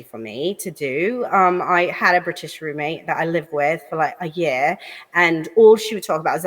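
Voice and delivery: British accent, very posh. Shown as a demonstration. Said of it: "Give me another accent you do".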